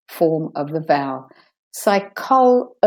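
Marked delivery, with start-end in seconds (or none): 1.7-2.7 "Psychology" broken up as sy-KOL, uh, jee; weak second O. Shown as a demonstration. Teacher showing the weak vowel, "Psychology" in pieces. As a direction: separate the weak uh in "Psychology" with small pauses. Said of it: "It's a weak".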